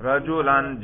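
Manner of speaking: "رجلن" ending in -an; "رجلن" with an a before the final n; accusative ending. Shown as a demonstration. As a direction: say "رجلن" as rajulan. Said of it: "نصب پہ تلفظ کرو".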